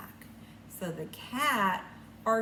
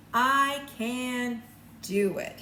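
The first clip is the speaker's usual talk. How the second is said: put-on proud boy; 5 dB louder, much slower than usual. Boy answers in picture book.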